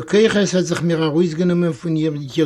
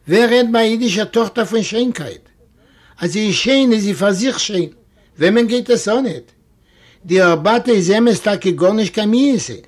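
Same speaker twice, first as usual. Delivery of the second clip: heated, higher; 3 semitones higher than usual. Acted. Fischke indignantly praising his wife.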